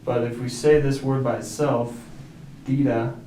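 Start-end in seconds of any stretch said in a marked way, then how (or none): 2.7-3.2 "tira" with the stress on TI, not on ra; stress on first syllable. Shown as a demonstration. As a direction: hit the TI in "tira". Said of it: "the emphasis is all the way back here on the I".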